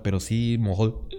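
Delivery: interrupted by a hiccup. Real, not acted. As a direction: say it while hiccuping. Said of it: "Ay, perdón, me dio hipo".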